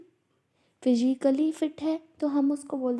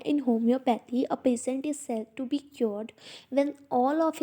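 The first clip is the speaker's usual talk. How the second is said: reading the principle out slowly, word by word; slow textbook reading; much slower than usual. Acted. Teacher reads the principle aloud to students, slow and deliberate. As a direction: dictate it to the class at a crawl.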